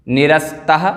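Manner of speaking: निरस्तः alone, ending in breathed "ha"; careful standalone निरस्तः, final "-taha"; word split out. Shown as a demonstration. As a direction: say निरस्तः with the visarga sounded. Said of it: "क्या क्या पद विच्छेद होंगे".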